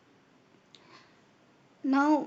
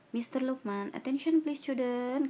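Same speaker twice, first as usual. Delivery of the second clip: loud, high call to the students; calling out to class; 4 semitones higher, 5 dB louder than usual. Acted. Teacher calls pupils to attention, loudly. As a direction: raise the voice to get the class's attention.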